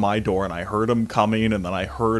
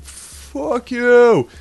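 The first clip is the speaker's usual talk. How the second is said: higher, louder snarl; angry fuck you; 10 dB louder than usual. Retold or imitated. Rejected drunk neighbor cursing Sean, angry. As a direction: spit it back at him.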